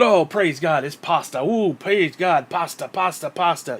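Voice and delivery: sarcastic swooning praise; singsong fake reverence; mock worship. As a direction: imitate an adoring congregant with contempt. Mocks worship of the pastor.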